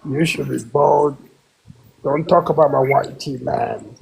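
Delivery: a fake accent, held steady; trolling the room in a put-on voice. Caller trolling the room about Charlie Kirk, put-on accent. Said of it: "not with that troll voice".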